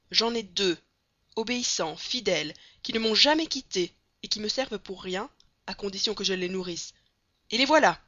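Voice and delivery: loud, boastful circus director; booming showman. Acted. Batulcar boasting to Passepartout about his two arms, loud and proud. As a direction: brag like a barnum showing off his arms.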